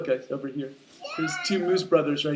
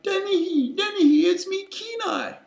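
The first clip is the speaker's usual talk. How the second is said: very high, loud pleading call; desperate cry; 7 dB louder than usual. Acted. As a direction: call out urgently to be recognised. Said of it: "Kenai cried".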